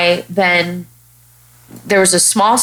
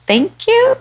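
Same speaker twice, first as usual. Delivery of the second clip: much higher, chirpy mock-gracious thank you; mock proud thanks. Retelling how she answered a mentor's jab, mock-pleased. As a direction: take the jab as a compliment. Takes Chicago remark as compliment.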